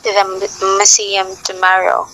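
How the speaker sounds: mild mock stutter with repeats and blocks; imitating a stutter. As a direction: lightly act out a stuttering speaker. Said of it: "a person who experienced stuttering".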